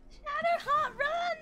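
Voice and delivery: real panic yelling at a teammate; urgent shout. Real, not acted. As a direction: yell the warning across the map. Urging companion to flee.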